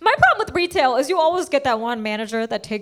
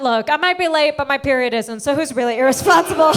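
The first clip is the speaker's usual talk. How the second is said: building comeback. Retold or imitated.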